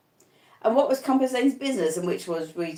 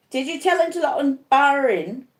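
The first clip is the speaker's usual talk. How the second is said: 1 anxious pleading; 7 semitones higher than usual. A narrator's reading. Sick man anxious.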